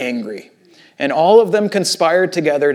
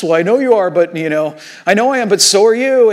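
louder, higher taunting comeback; mock childish comeback; 3 semitones higher, 3 dB louder than usual. Driver taunting someone who cut him off, mock retort. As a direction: toss back a schoolyard retort. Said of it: "shout a threat back at someone".

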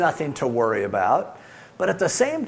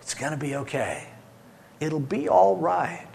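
reassuring. Acted. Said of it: "you go".

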